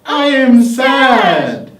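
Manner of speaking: high pitch. Shown as a demonstration. The speaker trying sad in a high pitch. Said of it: "in a high pitch".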